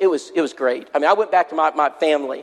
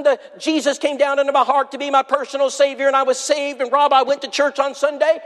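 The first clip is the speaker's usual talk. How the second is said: excited testimony; 4 semitones higher than usual. Retold or imitated. Sheila testifies about her salvation.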